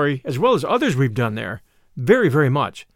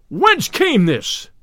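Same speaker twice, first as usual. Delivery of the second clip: high, drawn-out cry; mighty voice; 7 semitones higher, much slower than usual. A narrator's reading. Sheriff demands where the scroll came from, mighty cry. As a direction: cry it out slowly in a mighty, commanding voice. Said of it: "cried the sheriff in a mighty voice".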